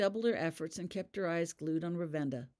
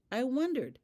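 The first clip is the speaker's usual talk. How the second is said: realization; 9 semitones higher, 4 dB louder than usual. A narrator's reading. Matthew amused realization.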